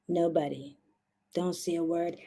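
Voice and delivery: low, very soft warning; conspiratorial hush. Pretend. Host swears viewers to secrecy, hushed and low. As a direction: swear them to secrecy under your breath.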